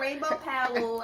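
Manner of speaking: "Rainbow Powell" said slowly with a P, on purpose instead of Rowell; playful wrong name, "Powell" with a P; teasing mispronunciation. Pretend. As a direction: tease her by saying "Rainbow Powell" with a P sound. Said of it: "Stop calling her Powell".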